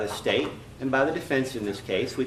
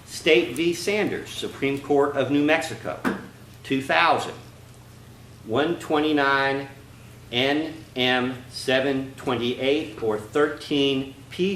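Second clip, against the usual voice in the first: fast citation read; slower than usual. Real, not acted. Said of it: "please slow down and can you repeat that?".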